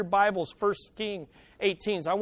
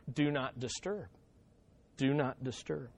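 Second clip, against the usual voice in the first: much softer, lower drowsy mumble; sleepy murmur; 7 semitones lower, 10 dB quieter than usual. Retold or imitated. God pictured asleep, soft drowsy do not disturb. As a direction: murmur it like a sign on a sleeper's door.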